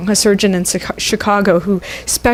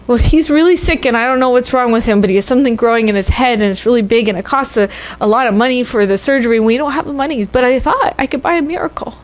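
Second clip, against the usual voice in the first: put-on higher, rushing child's explanation; lightly voiced little girl; 3 semitones higher, faster than usual. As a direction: tumble the words out like an anxious kid. Girl explains brother's illness.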